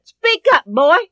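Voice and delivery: high, loud demand to speak up; impatient command. Acted. Mother ordering her stammering son to speak, loud and sharp. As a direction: bark at the hesitant boy.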